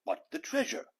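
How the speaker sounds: very high, dismayed holler; pirate holler. A narrator's reading. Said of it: "hollered Braidbeard".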